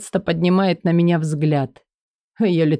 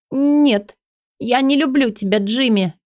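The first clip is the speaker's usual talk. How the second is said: Элли's voice; 6 semitones higher than usual. Acted. Элли, higher.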